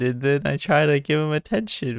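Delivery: gasp, then high-pitched distressed protest; high, pleading lament over a silly mistake; upset wail. Real, not acted. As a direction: whine it out in dismay, stumbling over the explanation. Accidentally shooed cat away in game.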